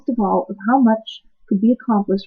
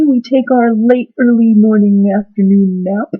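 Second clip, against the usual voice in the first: loud, singsong schedule chant; droning group recital; lazy chorus recital; 6 dB louder than usual. Acted.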